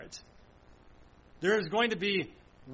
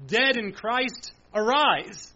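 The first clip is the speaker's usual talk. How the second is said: slow, higher, louder call of command; 3 semitones higher, 5 dB louder, much slower than usual. Pretend. God commanding the dead in Christ to rise, loud slow command. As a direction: call the dead up from their graves. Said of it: "this loud voice".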